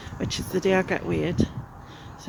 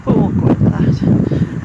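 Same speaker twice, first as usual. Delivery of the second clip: laughing; 9 dB louder than usual. Real, not acted. Laughing off last month's failure.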